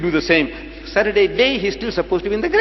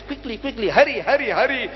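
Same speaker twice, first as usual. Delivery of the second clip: urgent hurrying; 5 semitones higher than usual. Acted. Acts out the crowd's haste.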